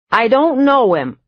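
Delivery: put-on high, loud old witch cackle; cackling voice. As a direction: ask through the door like a witch. Old woman denying through door.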